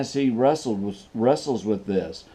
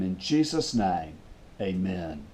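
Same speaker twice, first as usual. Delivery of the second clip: much lower and softer close of the prayer; soft amen; 6 semitones lower, 8 dB quieter than usual. Acted. Pastor closing the prayer to the congregation, hushed. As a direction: let the amen sink to a hush.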